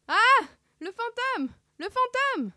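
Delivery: very high-pitched panicked squeal; terrified cartoon cry. Two friends see the ghost, squealing in fright. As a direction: squeal in comic terror.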